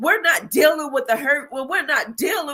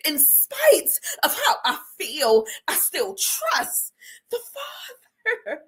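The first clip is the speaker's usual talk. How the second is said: a broken whisper on the last words; crying; 4 semitones higher than usual. Real, not acted. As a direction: voice breaking into tears while testifying. Emotional testimony, voice breaking into tears.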